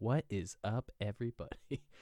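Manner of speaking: sultry, sexy late-nineties radio DJ voice. Speaker suggests doing intros like late-nineties radio hosts, put-on sexy radio-host voice. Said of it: "they come in like all sexy voice".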